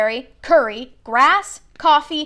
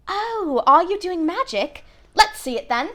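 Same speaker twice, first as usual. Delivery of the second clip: put-on bossy girl; 8 semitones higher than usual. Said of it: "She had a bossy sort of voice".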